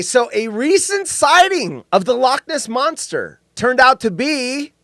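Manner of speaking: showman's drawn-out lead-in; drum-roll build-up. Acted. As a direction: draw it out before the big reveal. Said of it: "drum roll".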